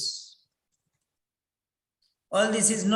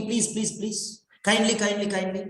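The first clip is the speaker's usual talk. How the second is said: mock begging. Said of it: "Why are you begging him".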